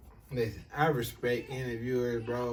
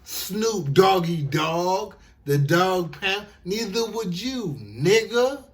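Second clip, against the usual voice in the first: much louder, chanting it back at the clip; hype shout; 3 semitones higher, 8 dB louder, slower than usual. Real, not acted. Host loudly shouts back at the interview clip. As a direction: shout it like a crowd at a show.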